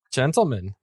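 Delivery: hammy fake German accent. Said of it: "worst German accent ever".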